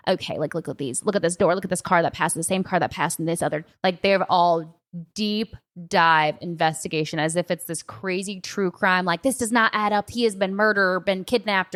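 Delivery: a light Southern twang for a TikTok sleuth; Southern accent. Retold or imitated. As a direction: imitate a Southern TikTok woman building a theory. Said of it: "I don't know why I go Southern accent with it".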